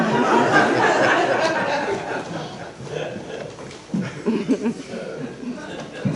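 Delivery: breathy laugh at his own joke; laughter. Real, not acted. Preacher laughing with the congregation. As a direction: let a laugh go.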